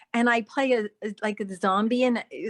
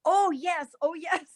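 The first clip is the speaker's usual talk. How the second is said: imitated eager agreement, higher pitched; Jackie Chan; 6 semitones higher, slower than usual. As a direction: play along with a higher-voiced yes. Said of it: "And Jackie goes".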